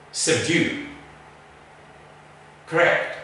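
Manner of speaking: slow schwa prefixes with pauses to repeat; correct pronunciation for repeating. Shown as a demonstration. Teacher leading the class to repeat schwa words. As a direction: say each word with a schwa prefix, then wait. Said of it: "Repeat after me using a schwa".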